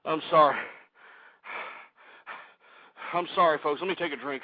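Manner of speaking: calming down. Real, not acted. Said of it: "Let me calm down here".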